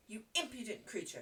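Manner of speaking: mild angry outburst at a servant; indignant scolding. Acted. Mistress rebukes Becky, indignant scolding. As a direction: scold with a touch of outrage.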